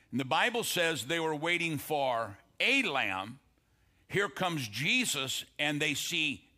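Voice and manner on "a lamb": A said as a long, punched "ay" before lamb; "a" set apart and stressed, rhyming with "day". Real, not acted. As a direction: lean hard on the article "a", said "ay". Contrasts a lamb with the lamb.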